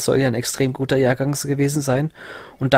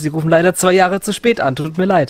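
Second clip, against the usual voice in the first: radio contest announcer; 4 semitones higher than usual. Retold or imitated. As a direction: play a pushy radio contest host. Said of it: "so dämliche Gewinnspiele".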